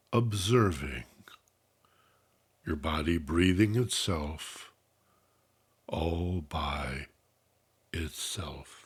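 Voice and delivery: measured, unhurried instructions, easing off at phrase ends; guided meditation. Real, not acted. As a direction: calmly guide listeners into relaxation, letting phrases settle.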